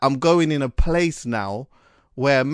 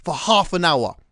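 emphatic; 5 semitones higher, 4 dB louder than usual. Real, not acted. Passionate declaration.

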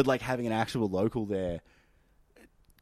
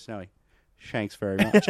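called-out pun. Retold or imitated. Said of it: "you yell it out over the bar".

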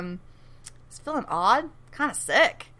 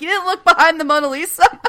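retold annoyance; 8 semitones higher, 6 dB louder, faster than usual. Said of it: "Hero's mad at Ando".

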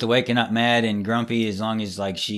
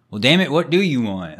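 exasperated parent; 5 semitones higher, 5 dB louder than usual. Retold or imitated.

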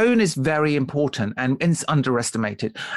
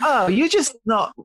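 much higher, slow exasperated complaint; husband imitating his frustrated wife, slow and high; upset wife; 9 semitones higher, slower than usual. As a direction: whine it like an upset wife fed up with his calm. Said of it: "and it can be like".

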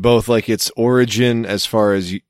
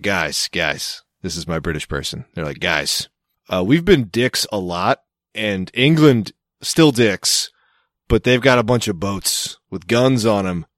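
low, hushed conspiratorial settler voice; mock Australian settler; 3 semitones lower than usual. Host mocking early Australians plotting a fake accent, hushed and low. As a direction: lean in and scheme like a sheepish colonist. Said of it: "they're all talking like British people".

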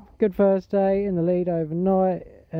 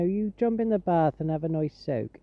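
put-on West Country farmer host accent; farmer's accent. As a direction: advise kindly in a Gloucestershire farmer's accent. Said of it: "traditional farmer's accent".

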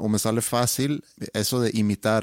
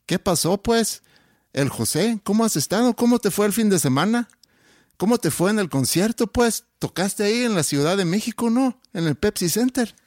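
put-on much higher singsong Sinaloan accent with rising pues; 9 semitones higher than usual. Asked by his host to imitate, high lilting Sinaloan accent. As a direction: bounce every question up high, northern Sinaloa style. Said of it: "Ahora como sinaloense".

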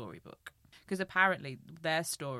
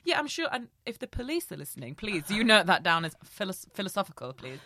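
laughing plea; 5 semitones higher, 9 dB louder than usual. Real, not acted. Joking plea to the police.

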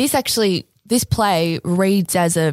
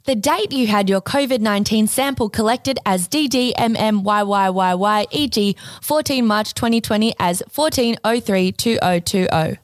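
robot voice. Acted. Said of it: "can I do a robot voice?".

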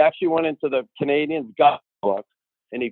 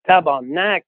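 higher exclamation of sudden recognition; retold astonished oath; 3 semitones higher, 4 dB louder, slower than usual. Star recognizes the kid at training camp, astonished. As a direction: imitate a startled curse.

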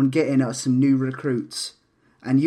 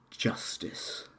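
whispered Justice; 13 dB quieter than usual. Acted. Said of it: "and goes".

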